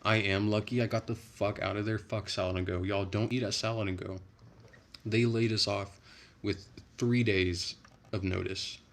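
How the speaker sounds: fired-up rant. Real, not acted. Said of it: "you just activated me".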